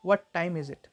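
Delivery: "What time" carries the weight, "is it" falls; sentence stress demo. Shown as a demonstration. Teacher repeating the example for learners, stressed "What time". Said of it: "stress में भी देख सकते हैं".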